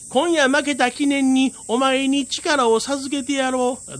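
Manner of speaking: high, pompous proclamation; grand little tengu. Acted. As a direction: declare it with puffed-up importance. 小天狗が力を授ける. (得意げな小天狗)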